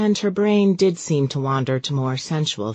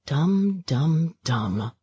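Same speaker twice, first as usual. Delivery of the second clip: self-scolding fading; much slower than usual. A narrator's reading. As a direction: berate yourself, trailing off.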